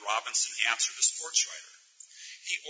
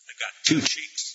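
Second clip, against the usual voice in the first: slow unvoiced whisper; 4 semitones higher than usual. A narrator's reading. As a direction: whisper it slowly, voiceless. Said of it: "he whispered".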